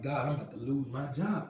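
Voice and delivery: murmured low and soft, barely voiced; hushed despairing prayer. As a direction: whisper your fear of losing the job.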